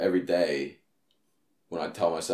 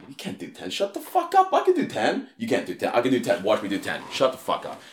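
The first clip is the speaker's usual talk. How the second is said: arguing with himself; 2 semitones higher than usual. Retold or imitated. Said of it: "I just go".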